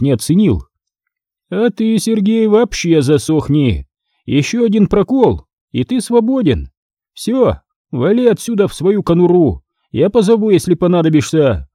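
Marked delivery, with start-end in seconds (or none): 1.5-11.7 higher, dismissive boss voice; contemptuous boss. A narrator's reading. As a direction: shoo the underling away.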